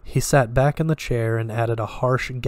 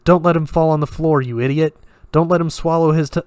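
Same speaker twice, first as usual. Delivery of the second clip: loud, raised-pitch shouted orders; urgent shout; 5 semitones higher, 5 dB louder, faster than usual. A narrator's reading. Escobar orders Ramon to hold a man having a fit, shouting. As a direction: shout frantic orders, cut off at the end. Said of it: "Escobar shouted".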